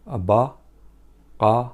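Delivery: "baqara" drawn out slowly, each sound clear; slow careful pronunciation. Shown as a demonstration. Arabic teacher modelling the word for students, slow and careful. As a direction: stretch out "baqara" so learners hear it.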